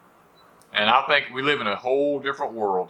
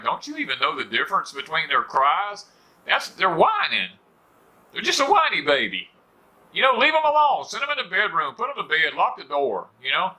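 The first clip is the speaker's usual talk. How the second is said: rising, pitched-up exasperated rant; exasperated scolding; 5 semitones higher than usual. Retold or imitated. Old-timer venting at coddling parents, pitched up and exasperated. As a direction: lecture them, getting higher and more fed up.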